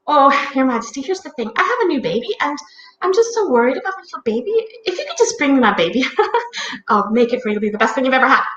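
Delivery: hurried, wheedling plea to royalty; anxious pleading. Acted. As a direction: plead your case in a rush. Molly pleading to the Queen.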